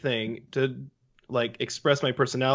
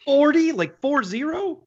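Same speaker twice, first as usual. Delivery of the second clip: high, loud disbelief; shocked, checking the number; surprised; 13 semitones higher, 4 dB louder than usual. Real, not acted. Reacts to forty inches of snow.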